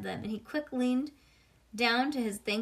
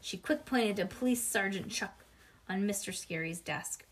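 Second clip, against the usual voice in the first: usual speaking voice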